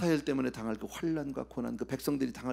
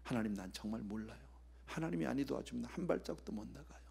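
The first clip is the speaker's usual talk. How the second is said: put-on childlike helpless prayer; 5 semitones lower, 11 dB quieter than usual. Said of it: "어린아이같이 바보같이".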